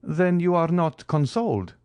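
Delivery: high-pitched questioning surprise; surprised. A narrator's reading. Count questioning his grieving friend, surprised. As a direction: ask as if taken aback. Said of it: "asked the count, surprised".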